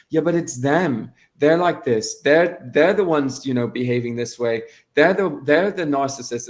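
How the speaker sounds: mildly mocking finger-pointing; mock blaming. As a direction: imitate someone insisting it's all their fault. Voices people blaming the other person.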